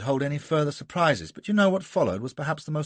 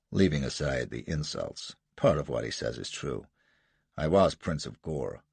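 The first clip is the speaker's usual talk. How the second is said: lightly voiced Jasser, lower, with a hint of American defiance; a cool, lower rogue brushing off the colonel; defiant American adventurer; 5 semitones lower than usual.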